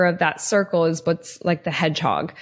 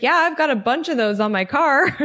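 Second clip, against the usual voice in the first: higher, said through a laugh; laughing friend; 5 semitones higher than usual. Retold or imitated. Friend joking about bird poop on her car, laughing. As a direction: tease her while laughing.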